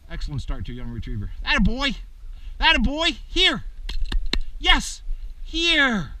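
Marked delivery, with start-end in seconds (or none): 1.4-6.1 high, loud praise and calling; excited praise. Real, not acted. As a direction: cheer the pup home.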